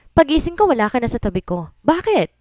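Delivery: high, pleading rise on each question; wife scolding her husband, high and hurt; hurt complaint. Acted. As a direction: sound wounded she woke up alone.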